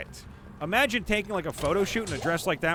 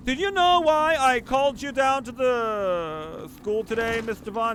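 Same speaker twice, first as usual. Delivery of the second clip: school principal; 6 semitones higher, 4 dB louder than usual. Pretend. School calling parent about child.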